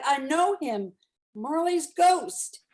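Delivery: a mildly voiced high, slow cry; flame crying out. Dying flame recognising the ghost, mild high slow cry. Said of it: "as though it cried".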